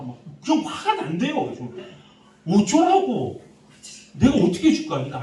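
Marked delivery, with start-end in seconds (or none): 2.5-3.4 sharp high loud mock snap of "어쩌라고?"; exasperated shout of "어쩌라고?" at the angry youth; exasperated retort. Pastor retells snapping at youth. 4.1-5.0 loud, high fed-up challenge; fed-up pastor shouting back at an angry youth; exasperated retort. Retold or imitated. Pastor retells snapping at youth.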